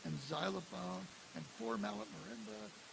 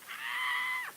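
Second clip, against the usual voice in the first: very high, loud Beatlemania scream; imitated fan scream; 3 dB louder than usual. Fans screaming for a famous band at the hotel, very high, loud scream. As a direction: shriek like a teenage fan seeing a famous band. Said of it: "thousands of screaming teenagers".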